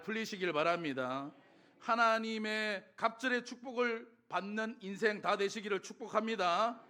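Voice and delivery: ringing pulpit declaration, stretched phrases; preacher's blessing. Acted. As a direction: proclaim a blessing over the congregation. Pronounces blessing on congregation.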